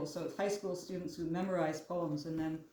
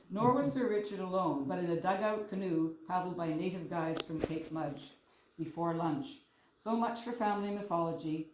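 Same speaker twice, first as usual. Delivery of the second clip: measured poetry recital, line by line; poem reading. Acted. Poet reads childhood fish poem to audience, measured recital. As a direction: read your poem aloud with deliberate phrasing and pauses.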